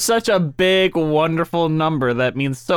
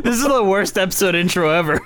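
laughing; 2 semitones higher than usual. Real, not acted. Laughing at own intro.

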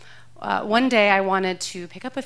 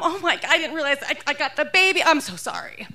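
flustered, apologetic mom act; frazzled mom; 6 semitones higher than usual. Pretend. Shoplifter faking a flustered mom to security. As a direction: play the frazzled mom caught out. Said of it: "frazzled mom".

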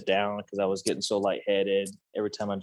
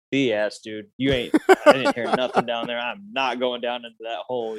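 annoyed retort; 4 dB louder than usual. Retold or imitated. Exhausted hunter snapping at his eager partner, annoyed. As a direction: shoot him down, irritated and worn out. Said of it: "And I'm like".

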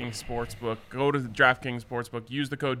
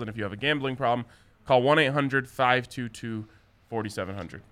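fast legal disclaimer. Acted. Reads sportsbook disclaimer.

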